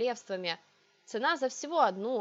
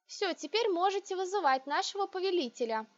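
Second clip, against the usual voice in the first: polite; 8 semitones higher than usual. A narrator's reading. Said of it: "вежливо сказала".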